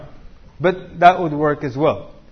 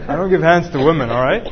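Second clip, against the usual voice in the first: jokingly blunt, louder refusal; mock rough refusal; 5 dB louder than usual. Teasing a rough brother's answer to women, mock gruff refusal. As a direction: imitate a brusque brother, punched out. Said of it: "What a rough brother".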